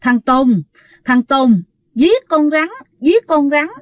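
mildly imitated angry accusation in short bursts; angry scolding. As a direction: accuse haltingly, as an angry possessing spirit. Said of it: "giống như là tức giận mà la". (giả giọng tức giận, la nhẹ từng tiếng)

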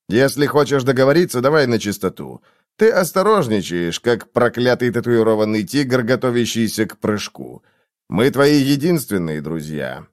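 ordinary delivery, nothing marked

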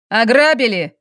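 usual speaking voice

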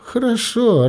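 put-on mother yielding to the kids with a laugh. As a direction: give in with a laugh. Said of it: "рассмеялась Катарина".

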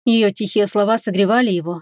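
plain reading voice

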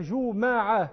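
جماعة said in stretched syllables "juu-MA-'a", a after the m; fatha on the mim. Shown as a demonstration. Teacher showing another vowelling, جماعة as "juma'a". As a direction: open the mim of جماعة to a drawn-out a. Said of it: "إنما ضبطها بالفتح".

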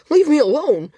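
desperate high yell for release; shouted. A narrator's reading. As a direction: scream it out to get away. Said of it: "he shouted".

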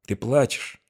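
soft wondering question; surprised. A narrator's reading. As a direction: ask it gently, amazed. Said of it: "В голосе её зазвучали удивление".

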